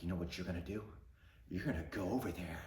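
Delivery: big sister enjoying his punishment, gleeful; gloating sister. Retold or imitated.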